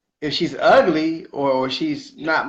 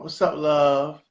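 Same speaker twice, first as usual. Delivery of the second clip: New Orleans greeting; much slower than usual. Retold or imitated. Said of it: "And that's how they talk".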